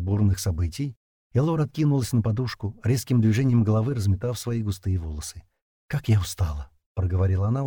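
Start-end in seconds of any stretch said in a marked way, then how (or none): 5.9-6.7 breathless, lower and tired; panting after exertion; out of breath. Acted. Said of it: "учащённо дыша".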